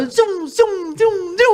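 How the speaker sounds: whooshing throw noises, rising high; playful swoosh sounds; mock whoosh. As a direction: zum as slippers fly off. Throwing slippers far away.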